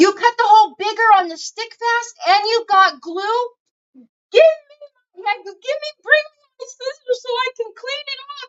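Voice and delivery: very high-pitched, loud yelling rant. Retelling how she reacted to glue on her scissors: imitating her own yelling. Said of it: "Why are you yelling at me?".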